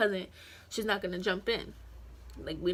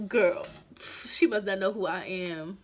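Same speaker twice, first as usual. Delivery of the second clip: cocky scoff; 4 dB louder than usual. Retold or imitated. Scoffing to cousin.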